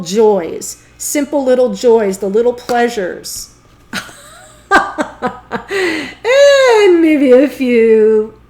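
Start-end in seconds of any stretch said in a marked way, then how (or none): 4.7-6.8 high, loud burst of giggles; burst of laughter. Real, not acted. Racy hint makes her laugh. 6.8-8.4 loud, drawn-out words out of a laugh; amused, suggestive. Real, not acted. Laughing over a racy hint.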